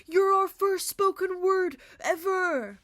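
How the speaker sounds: loud, high, slow excited exclaim. Retold or imitated. Musicians welcoming first spoken word poet, excited. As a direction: gush it like thrilled hosts. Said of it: "they were so excited".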